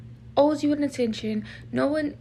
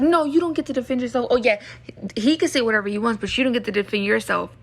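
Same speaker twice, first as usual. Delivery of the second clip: mock indignant quote; 3 dB louder, faster than usual. Mocking people who deny self-defence.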